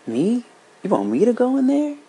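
high, loud, frightened disbelief; a boy horrified at being sent into the dark room; scared boy. Acted. Boy fears the dark parlor.

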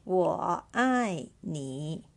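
我爱你 said slowly, syllable by syllable; slow final model for learners. Shown as a demonstration. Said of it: "I love you".

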